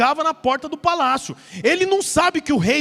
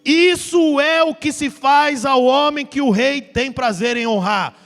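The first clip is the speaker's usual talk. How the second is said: proclaiming shout; 4 dB louder, slower than usual. Retold or imitated. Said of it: "O príncipe deveria gritar assim".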